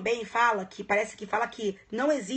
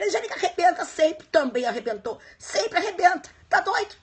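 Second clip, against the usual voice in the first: laughing praise; 7 semitones higher, 5 dB louder than usual. Real, not acted. Gushing praise of colleague.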